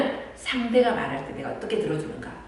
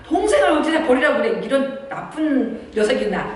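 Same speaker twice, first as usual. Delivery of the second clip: much higher, louder, laughing rebuke; a hammed-up mom snapping at a naughty kid; mock scolding; 7 semitones higher, 4 dB louder than usual. Shown as a demonstration. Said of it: "이렇게 하면 안 된다는 거예요". (아이를 꾸짖는 엄마)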